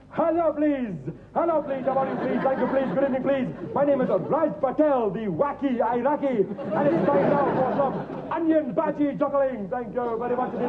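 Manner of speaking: mock Indian accent. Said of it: "alter ego is taking my place".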